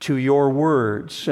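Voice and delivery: slow stress on "words"; "words" said slowly with weight. Shown as a demonstration. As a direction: hold "your words" slowly. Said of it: "And I emphasize the word words".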